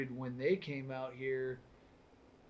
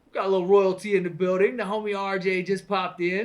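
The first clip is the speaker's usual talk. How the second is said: clipping distorted mic; 5 semitones higher, 9 dB louder than usual. Real, not acted. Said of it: "I gotta stop yelling in the mic".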